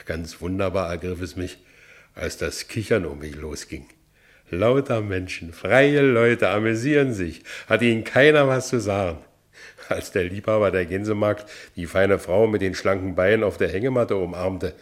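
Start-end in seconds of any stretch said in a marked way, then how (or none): 4.5-9.2 excited. Acted. Ex-convict marvels at free people.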